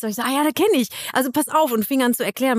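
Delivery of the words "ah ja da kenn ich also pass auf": higher, eagerly confident self-quote; proud. Retold or imitated. Woman proudly offering directions to a stranger, self-mocking imitation. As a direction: act out proud know-it-all confidence. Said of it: "ich war so stolz".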